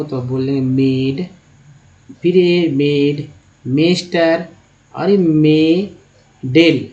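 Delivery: मेड, मेस्टर, मेडल said with the vowel ए where the vowel should be आ, drawn out slowly; teacher showing the wrong way to read मेड, मेस्टर, मेडल with ए; wrong vowel demo. Shown as a demonstration. Teacher shows students the wrong reading, deliberately mispronounced. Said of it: "ए लगा के बोलेंगे".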